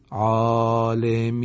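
عالمین with the final نون vowel kept short, not drawn out; عالمین chanted, ending clipped short. Shown as a demonstration. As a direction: say عالمین without stretching the end.

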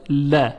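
"ل" said thin and light, with a front vowel; thin lam. Shown as a demonstration.

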